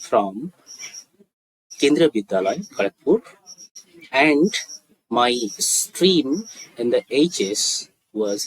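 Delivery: very slow, broken into short phrases; slow demonstration. Shown as a demonstration. Teacher models a student's schooling answer, slowly. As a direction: dictate it slowly with long pauses. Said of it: "আস্তে আস্তে বলছি".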